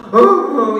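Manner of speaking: loud, high mock wailing sobs; loud sobbing demo. Shown as a demonstration. Preacher showing loud crying, mock wailing sobs. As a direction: show the noisy kind of crying. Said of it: "이게 우는 게 아니라".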